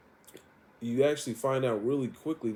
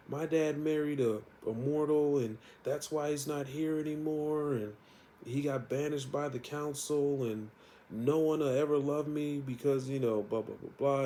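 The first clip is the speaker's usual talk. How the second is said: put-on higher, lightly tearful child; a touch of a weepy kid pouring it out; mild bawling; 5 semitones higher than usual. Sabrina crying about her dad, mildly tearful. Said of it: "she's just bawling".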